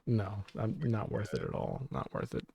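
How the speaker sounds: breathy whisper under the breath; whispered aside. Real, not acted. Muttering to listeners he's not worth it, whispered. Aside after disavowing Alex Jones.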